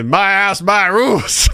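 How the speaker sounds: a hint of a ruling parent; mock parental decree. Host joking as a homeowner, mock parental decree.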